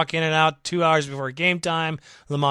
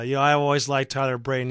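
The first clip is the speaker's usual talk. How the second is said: ordinary delivery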